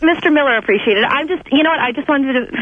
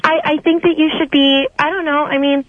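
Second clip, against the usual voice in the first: fake caller voice. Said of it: "I'm a pretty good voice impersonator".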